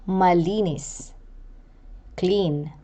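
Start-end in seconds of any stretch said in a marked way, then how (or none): 0.1-1.1 Malinis with stress on the middle -li-; penultimate stress. Shown as a demonstration. Teacher showing penultimate stress, middle syllable stressed in Malinis. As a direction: lean on the second syllable of Malinis. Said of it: "given to the syllable before the last".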